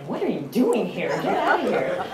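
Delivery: mock-hostile, swooping pitch; lightly hammed-up shooing away of a visitor; mock rude challenge. Americans to somebody at their door, mock rude. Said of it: "we would have been like".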